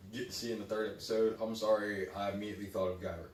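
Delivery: speaking carefully around freshly pulled teeth; talking after tooth extraction. Real, not acted. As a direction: mouth sore after tooth extraction, talking out of one side. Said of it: "if I'm talking funny, it's because I had three teeth pulled".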